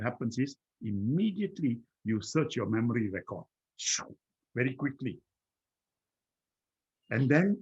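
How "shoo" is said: quick unvoiced-sounding "shoo" whoosh; whooshing noise. Shown as a demonstration. Showing how fast memory is searched, a whoosh. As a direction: make a swift whoosh with the mouth.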